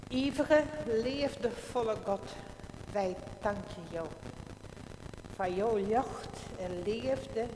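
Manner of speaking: slow, solemn prayer voice. Acted. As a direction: pray aloud with pauses. Pastor leads congregational prayer.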